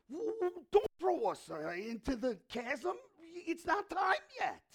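high, loud, stammering plea; begging demons. Retold or imitated. Demons beg Jesus not to throw them, high stammering. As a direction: play the terrified demons pleading not to be thrown.

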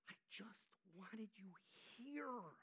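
a grieving sister whispering she only wanted him there; whispered plea. Retold or imitated. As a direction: breathe it out tenderly. Mary's tender whispered confession.

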